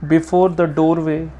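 measured, slightly lifted reading voice; poem reading. A narrator's reading. Reader sharing a favourite poem with listeners, measured reading. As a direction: read the poem steadily, savouring the lines. Reads Jeffers poem aloud.

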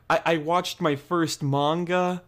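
slow, gushing clueless fan; overexcited fan. Retold or imitated. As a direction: gush like a brand new fan. Mocking an overexcited new anime fan.

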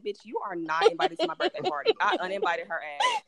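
high, loud retold rant; upset telling-off. Retelling uninviting her from the birthday party, mock upset. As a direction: scold in mock outrage, breaking into a laugh. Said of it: "I was just so upset".

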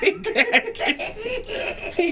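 breathless high voice through laughter; words squeezed out after a laugh fit; after laughing hard. Real, not acted. Speaking right after laughing hard.

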